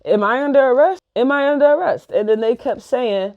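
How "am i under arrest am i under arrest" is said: high-pitched retold protest; indignant questioning. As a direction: re-enact challenging the officers, voice pitched up. Acted protest to officers.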